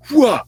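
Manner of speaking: high, sharp mock sword-swing shout; fighting yell. Storyteller playing Saul swinging swords, mock fighting yell. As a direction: burst out a short combat cry.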